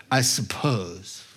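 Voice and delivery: low, slow, reluctant concession; grudging admission. Acted. Pharisee forced to answer the question, grudging. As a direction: concede it unwillingly, drawn out and low. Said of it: "I know the answer and I'm not happy about this".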